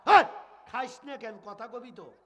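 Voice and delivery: angry. Acted. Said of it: "মাথা গরম".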